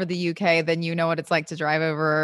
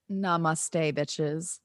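a hint of a sassy, softer drop on bitches; Naomi's sassy line; 3 semitones lower, 6 dB quieter, much slower than usual. Quoting her favorite Naomi line, lightly sassy. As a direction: toss it off lightly like a diva. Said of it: "one of my favorite lines ever".

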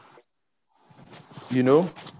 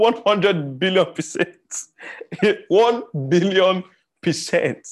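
laughing emphatic answer; 6 semitones higher, slower than usual. Real, not acted.

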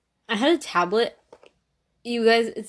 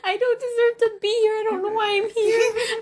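mock pleading; 14 semitones higher, 3 dB louder than usual. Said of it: "I was like".

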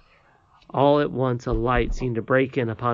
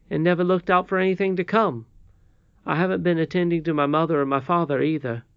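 put-on higher, earnest voice of a boy owning up; Curdie; 4 semitones higher, 4 dB louder than usual. Curdie admits his wrongs to the old lady, earnest and contrite. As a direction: pour out a confession, pitched up.

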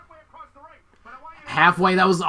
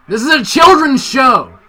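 mock outrage; 7 semitones higher, 7 dB louder, slower than usual. Mock scandalized scolding.

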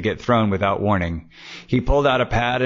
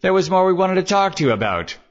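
pointed; 10 semitones higher, faster than usual. Acted. Evan presses Harold to stay.

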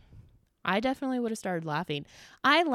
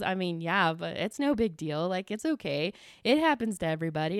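retold calm reassurance. Partner consoling after a mishap, lightly imitated calm. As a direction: play the unfazed partner brushing it off. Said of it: "like, calm".

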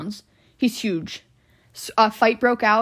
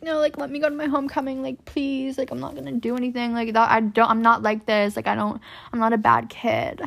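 tearful pleading; 3 semitones higher than usual. Retold or imitated. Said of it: "pulled out the waterworks".

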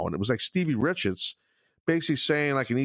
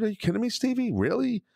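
retold disbelief; 11 semitones higher than usual. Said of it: "I'm like".

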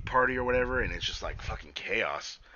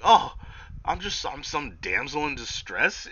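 high mock voice; 4 semitones higher, 3 dB louder, slower than usual. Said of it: "she's like".

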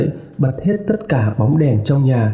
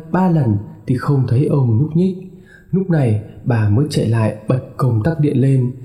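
ordinary talk, nothing marked

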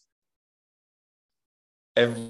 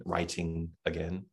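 southern accent; 6 dB quieter than usual. Shown as a demonstration. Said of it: "That was my southern accent".

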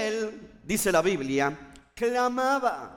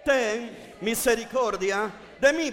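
slightly raised, insistent plea for mercy; 3 semitones higher than usual. Shown as a demonstration. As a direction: lead the crowd in a stronger cry. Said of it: "dígalo más fuerte".

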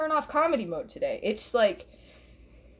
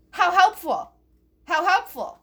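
high, loud exclamations; mock delight; 7 semitones higher, 7 dB louder than usual. Comic reacting to laughing through pain, mock delight. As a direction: call it out high and loud, hammed-up.

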